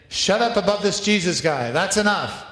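a touch of a stern order; mock stern warning. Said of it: "released and warned again".

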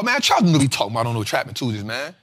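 fast, grumbling complaint; mock angry student. Upset investor complaining about the teacher, fast grumbling. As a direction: rattle it off like a sulking student. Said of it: "Now you pissed off".

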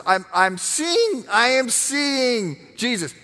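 breathless, rising cry of wonder as John; awestruck exclaiming. Acted. John seeing Jesus in heaven, awestruck exclaiming. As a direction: blurt it out like you can't believe your eyes. Preacher voices John's vision.

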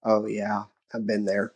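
calm, caring dad inviting the talk; understanding dad. Retold or imitated. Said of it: "No, Dad's gonna say".

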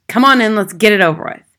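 loud, grudging invitation; snapped. A narrator's reading. Father letting the teacher in against his will, snapping. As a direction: hurry the visitor in irritably. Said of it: "he snapped".

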